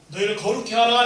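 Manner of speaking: loud solemn declaration; proclaiming. Acted. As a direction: ring the verse out to the congregation. Proclaims scripture verse.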